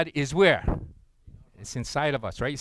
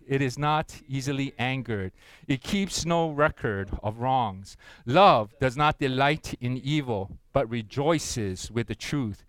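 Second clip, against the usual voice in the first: slow, measured scripture reading; slow group recitation. Acted. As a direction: read each line slowly, in unison. Congregation reading scripture aloud together.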